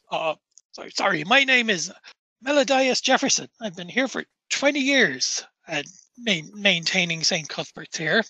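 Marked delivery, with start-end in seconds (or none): 1.2-8.2 polite, halting, lightly voiced caretaker; rambling graveyard caretaker. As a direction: reminisce wistfully, then excuse yourself politely. Game master voices the caretaker.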